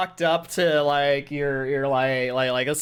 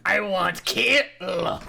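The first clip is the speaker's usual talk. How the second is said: caveman voice; 5 semitones higher, 3 dB louder, much slower than usual. Acted. Player mocks bloodthirsty character.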